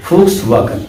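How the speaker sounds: Volkswagen said fox-vah-gen with a German f and v; brand name pronounced. Shown as a demonstration.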